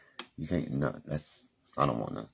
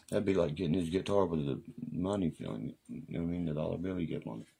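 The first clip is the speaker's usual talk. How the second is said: ordinary talk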